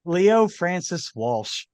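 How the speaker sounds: slow, hammed-up fake Irish brogue; mock Irish, drawn out; a hint of a bad Irish accent. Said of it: "With a very, very bad Irish accent".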